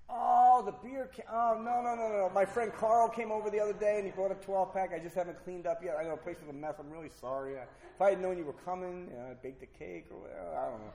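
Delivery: loud, high, tumbling denial easing off; flustered excuses. Retold or imitated. Drinker caught out by the fiancee, flustered excuses.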